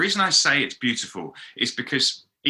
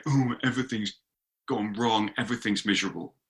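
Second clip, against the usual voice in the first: grumpy moaning; 4 dB quieter than usual. Acted. Cynics looking at a chaotic world, grumpy moaning. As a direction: grumble it softly, like a mild Eeyore. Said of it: "we just grump and we say".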